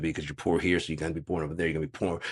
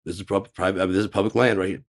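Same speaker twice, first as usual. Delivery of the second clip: flustered agent; 3 semitones higher, 5 dB louder, faster than usual. Retold or imitated. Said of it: "They're like".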